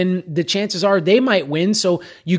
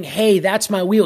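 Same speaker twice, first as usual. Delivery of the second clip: confident call. Retold or imitated. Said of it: "like, just authoritatively, confidently".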